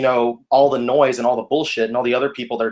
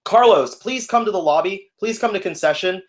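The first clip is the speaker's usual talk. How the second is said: higher, projected page; walkie announcement; 5 semitones higher than usual. Retold or imitated. Worker summoning Carlos to the lobby, walkie-announcement voice. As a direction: page a manager over the walkie. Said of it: "the walkie, and I was like".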